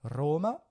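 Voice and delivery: Roma stressed on the first syllable, RO-ma. Shown as a demonstration. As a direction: lean on the start of Roma. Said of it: "on accentue sur la première".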